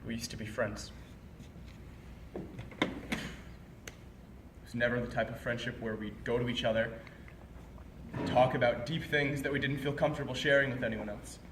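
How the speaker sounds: low, soft, halting reminiscence; subdued regret. Acted. Telling an ex-friend what they used to be, subdued. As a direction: recall it quietly, with long pauses.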